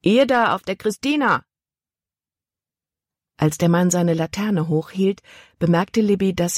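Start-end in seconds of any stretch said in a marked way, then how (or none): 0.0-1.4 calling out. A narrator's reading. Man hails boat at night.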